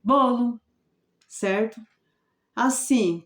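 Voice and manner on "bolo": "bolo" as one word, stressed on BO, louder and higher; blended word. Shown as a demonstration. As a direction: repeat "bolo" joined up, final o light. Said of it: "A gente lê bolo".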